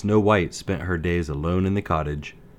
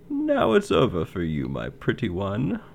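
sneering witch; 3 semitones higher than usual. Acted. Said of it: "the queen sneered".

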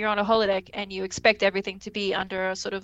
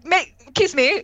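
sweet-talking lover; 7 semitones higher, 5 dB louder, slower than usual. Acted. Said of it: "they're just sweet talking to each other".

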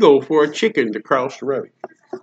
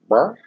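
chicken noise. Retold or imitated. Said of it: "chicken goes".

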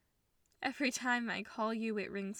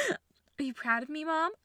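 tearful; 4 semitones higher, 5 dB louder than usual. Acted. Crying question to mom.

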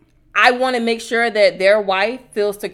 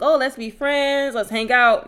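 mock friendly; 5 semitones higher, slower than usual. Mimics exes wanting friendship.

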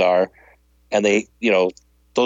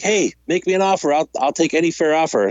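lightly voiced pushy toy vendor, pitched up; vendor's pitch; 5 semitones higher than usual. Toy seller asking for an offer, mildly pushy. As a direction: call out a deal, a little pushy.

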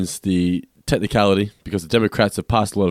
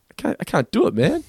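mock pleading kid; 12 semitones higher, 4 dB louder than usual. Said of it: "looking at that rabbit going".

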